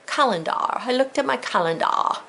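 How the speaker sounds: "calendar" playfully ending in "dah"; spelling pronunciation. Shown as a demonstration. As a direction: exaggerate the last vowel of "calendar" to "dah". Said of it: "I had to say calendar".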